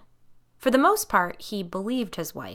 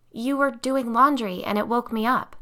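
stronger voice; 5 semitones higher, 4 dB louder than usual. Acted. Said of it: "Her voice was stronger".

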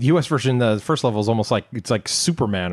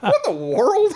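amazed. Retold or imitated. Retold amazement.

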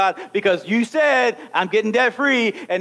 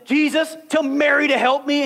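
Martha complaining; 5 semitones higher than usual. Acted. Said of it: "she comes in".

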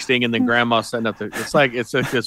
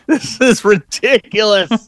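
exasperated disbelief; 10 semitones higher, 5 dB louder, slower than usual. Real, not acted. Exasperated at absurd movie.

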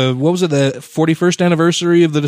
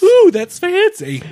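high, slow sarcastic awe; mock impressed; slower than usual. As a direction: gush over it sarcastically.

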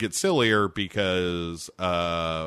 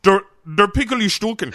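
higher, louder German while laughing; mock German accent; 11 semitones higher, 5 dB louder than usual. Pickle jar joke continues in laughing mock German. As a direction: laugh through a hammy German line. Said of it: "pretty close to, to Sprockets".

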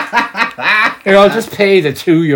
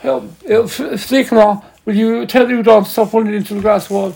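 panicked mock plea; 8 semitones higher than usual. Mock panicked tourist aside.

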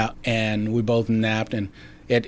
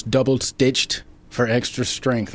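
voiceover line; slower than usual. Retold or imitated. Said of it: "all I said was".

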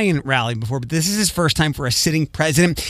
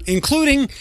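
slow drawn-out voice; 5 semitones higher, much slower than usual. Retold or imitated. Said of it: "That voice".

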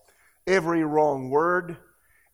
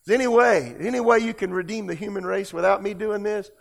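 raised, urgent plea; Jesus; 4 semitones higher, faster than usual. Retold or imitated. Preacher voicing Jesus praying in Gethsemane, crying out. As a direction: plead upward to God, higher and pressing. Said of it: "he cried out".

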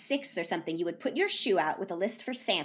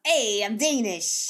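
mock Danish accent; 4 dB louder, slower than usual. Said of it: "What is that accent?".

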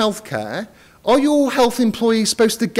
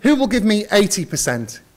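auctioneer; 2 semitones higher than usual. Acted. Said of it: "start the bidding".

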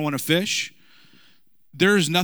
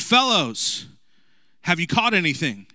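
calling out; 3 semitones higher than usual. Retold or imitated. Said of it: "He called out to them".

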